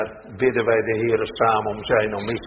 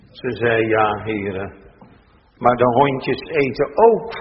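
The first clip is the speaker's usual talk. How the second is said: measured, solemn Bible reading from the pulpit; scripture reading; 3 semitones higher than usual. Acted. Minister reads the gospel passage to the congregation, solemn and measured.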